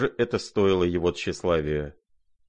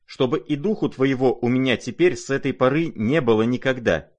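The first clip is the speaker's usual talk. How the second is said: louder, higher, furious order; furious banishing; 5 semitones higher, 4 dB louder than usual. Acted. Lizaveta banishing the prince from her home, furious. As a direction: drive him out of the house in a rage. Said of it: "побледнев от гнева".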